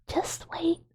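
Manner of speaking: "Just wait." repeated in an unvoiced whisper; whispered teasing. Shown as a demonstration. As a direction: breathe "Just wait." as a secret threat.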